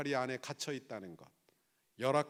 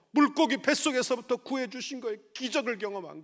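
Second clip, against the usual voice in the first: raised, emphatic pulpit delivery; forceful preaching; 7 semitones higher, 10 dB louder than usual. Real, not acted. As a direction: drive each point home loudly. (힘주어 높이 외치는 설교)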